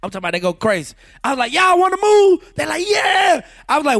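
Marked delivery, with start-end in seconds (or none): 1.5-2.5 much higher, louder, slow call to the crowd; rally the crowd into the mic; hype shout to crowd. Retold or imitated. Hyping the crowd from stage. 2.9-3.4 high, loud crowd yell; crowd roar. Retold or imitated. Crowd shouts back.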